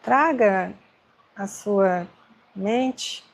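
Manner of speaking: unhurried meditation guidance with long pauses; guided meditation. Acted. Meditation teacher helping agitated students breathe, guided meditation. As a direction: guide them gently, leaving space between phrases.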